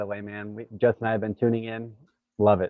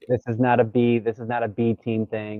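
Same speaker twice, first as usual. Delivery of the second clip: metallic tin can mic; tin can sound; 3 dB louder than usual. Real, not acted. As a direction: sounds like talking from inside a can. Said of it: "now I sound like I'm in a tin can".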